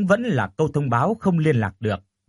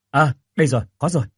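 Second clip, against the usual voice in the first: cheering; 3 dB louder, much faster than usual. Acted. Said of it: "anh liền reo lên".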